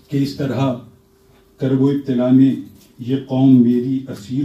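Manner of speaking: slow, measured poetic recital; stately nazm recitation. Acted. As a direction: recite it with gravity. Poet recites his prayer nazm.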